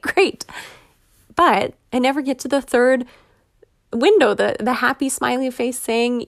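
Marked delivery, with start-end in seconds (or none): 0.0-0.4 "great" squealed much higher in delight; a giddy, high-pitched "great"; excited great. Retold or imitated. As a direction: let the last "great" jump up with glee. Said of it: "So I'm excited".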